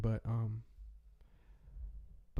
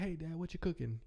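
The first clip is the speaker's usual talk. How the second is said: put-on kid voice; 6 semitones higher than usual. Imagined child asking dad.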